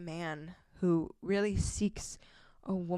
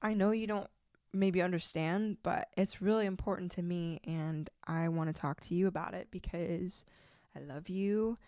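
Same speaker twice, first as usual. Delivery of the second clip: calm and gentle. Retold or imitated. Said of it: "I just calmly say to him".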